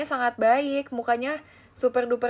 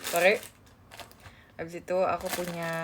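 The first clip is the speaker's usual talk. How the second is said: usual speaking voice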